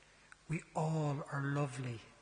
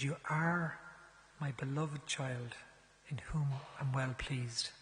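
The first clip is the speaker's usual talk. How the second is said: tender blessing repeated; slower than usual. Retold or imitated. Priest repeating the blessing on request, slow and tender. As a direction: give it again, like a gift. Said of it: "Give it to me again".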